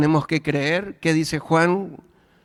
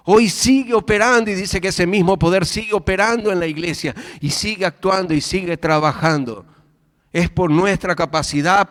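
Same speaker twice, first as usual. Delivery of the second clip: somewhat raised, insistent preaching; fervent preaching; 5 semitones higher than usual. Acted. Preacher telling the church God's power still works today, fervent. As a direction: press the point home to the congregation.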